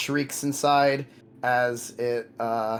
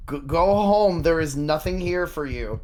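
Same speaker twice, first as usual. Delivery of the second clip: loud, nervous stuttering guard; stammering guard shout; 4 semitones higher, 6 dB louder than usual. Acted. Guard stutters telling player leave.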